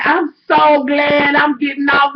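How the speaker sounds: slow, drawn-out mock whine; mocking sing-song of the clerk. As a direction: drag it out like a smug clerk. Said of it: "I'm telling y'all how this bitch came".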